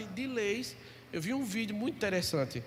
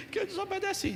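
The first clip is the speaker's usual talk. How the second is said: put-on small child's answer; 12 semitones higher than usual. Son voiced answering father.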